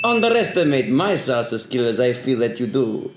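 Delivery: a hint of Yoda's backwards speech. Friend slipping into Yoda while arguing about salsa. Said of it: "Why am I talking like Yoda?".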